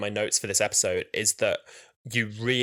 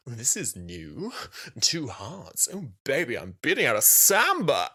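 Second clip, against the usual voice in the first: Cassandra impression; slower than usual. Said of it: "David Tennant does his Cassandra".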